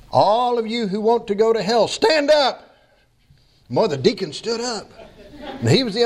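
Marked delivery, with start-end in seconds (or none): 0.1-2.8 retold shout, leaping high on the last words. Pastor startling a sleeping deacon, sudden high call-out. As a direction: start raised, then burst out high on the command.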